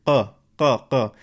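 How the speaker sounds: isolated back q, far behind the k; throaty q sound. Shown as a demonstration. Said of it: "it's way back there in the throat".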